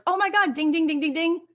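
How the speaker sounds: imitating herself giddy with excitement; excited ding-ding. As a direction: chant the dings like a jackpot. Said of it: "I was like".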